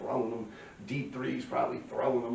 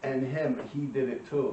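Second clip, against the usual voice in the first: lightly voiced tattling kid, eager; a hint of a kid ratting everyone out; mildly mocking the snitch; 3 semitones higher than usual. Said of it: "And he's like".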